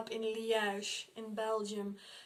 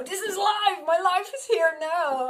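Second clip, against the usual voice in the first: emphatic; 8 semitones higher, 11 dB louder than usual. Real, not acted. Emphatic declaration of living now.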